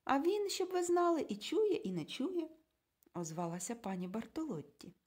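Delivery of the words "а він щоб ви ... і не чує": much higher, brighter quip; sly retort. A narrator's reading. Mrs Bartolotti needling the couple, high sly tone. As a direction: tease them with a sly hint.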